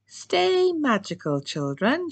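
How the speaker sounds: put-on high bright cheer to the children; excited cheering call; cheerful call. A narrator's reading. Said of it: "she cheered".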